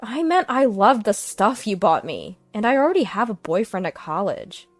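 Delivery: calm. Acted. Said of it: "she calmly replied".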